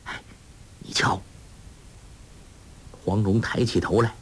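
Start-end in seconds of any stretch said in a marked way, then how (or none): 0.1-1.2 softly into his ear; murmured nudge, barely voiced; hushed aside to a sleeping companion; low murmur. A narrator's reading. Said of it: "在他耳边低声说".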